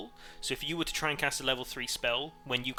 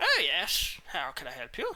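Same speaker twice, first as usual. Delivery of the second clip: put-on swooping old shopkeeper voice, old man; 3 semitones higher, 4 dB louder than usual. As the three enter through the dinging door, the narrator voices an older robed man. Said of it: "a familiar-looking older man in his robes".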